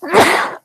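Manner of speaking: sudden real sneeze, high burst; sneezing. Real, not acted. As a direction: let a real sneeze explode out. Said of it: "Sorry, I have to sneeze".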